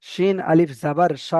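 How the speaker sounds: শিন আলিফ জাবার সা, slow with সা drawn out; long vowel reading. Shown as a demonstration. Teacher to students, drawing out the vowel. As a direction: stretch the সা one alif long. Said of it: "এটা টান দিয়ে পড়তে হবে".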